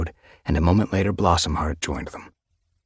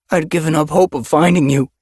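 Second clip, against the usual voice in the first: choked out; 11 semitones higher, 9 dB louder than usual. Acted. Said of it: "he choked out".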